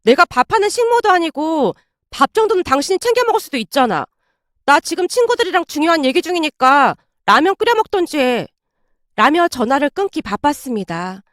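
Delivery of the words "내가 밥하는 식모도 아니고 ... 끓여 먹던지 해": higher-pitched, irritated complaint. Acted. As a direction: snap irritably, as if brushing a husband off. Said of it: "버럭 짜증부터 냈습니다".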